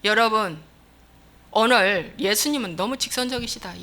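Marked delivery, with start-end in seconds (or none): none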